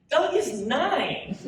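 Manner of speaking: slow, high words through a laugh; mother laughing at her son's tavern claim; laughing disbelief. Acted.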